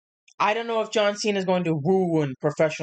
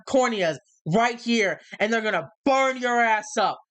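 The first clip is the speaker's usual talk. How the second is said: wrestling promo. Acted.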